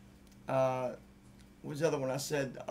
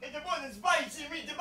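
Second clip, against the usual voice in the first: spicy meatball ad voice; 11 semitones higher, 4 dB quieter than usual. Retold or imitated.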